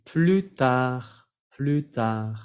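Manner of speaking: Plus tard with silent S and D, R sounded; French pronunciation. Shown as a demonstration. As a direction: say ply-tar. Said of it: "La R sí".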